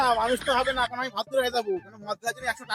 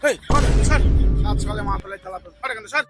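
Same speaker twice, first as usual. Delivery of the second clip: irritated shout; 2 semitones higher, 5 dB louder than usual. Acted. Man shoos the drunk away.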